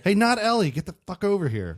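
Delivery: loud, high-pitched call-out; mock summons. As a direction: holler for the kid in jest. Mock calling the boy over.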